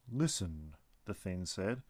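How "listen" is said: low, soft, settled repeat; calm tree creature. Acted. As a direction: answer gently and lower. The being repeats.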